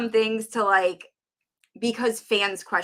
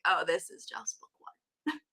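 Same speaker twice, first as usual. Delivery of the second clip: mock whisper; 3 semitones lower, 11 dB quieter than usual. Retelling her reaction mid-book.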